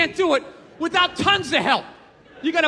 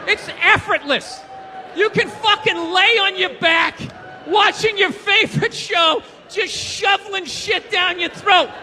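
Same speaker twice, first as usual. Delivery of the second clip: lazy drawl; 4 semitones higher, slower than usual. Acted. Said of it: "lazy eating described slowly".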